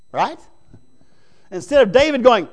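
normal talking voice

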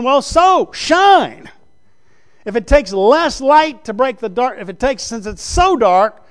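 loud, high, drawn-out exhortation; preaching at full force. Acted. Preacher urging his church to let their light shine, loud and slow. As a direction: stretch the words and hammer home the call.

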